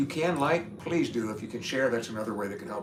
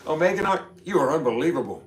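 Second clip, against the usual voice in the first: talking through hiccups; words broken by hiccups; 5 semitones higher, 4 dB louder than usual. Real, not acted. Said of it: "I got the hiccups".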